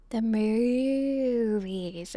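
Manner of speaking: very slow, drawn-out deadpan punchline; bad acting. Shown as a demonstration. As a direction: drag the punchline out slowly. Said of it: "you have to deliver it like that".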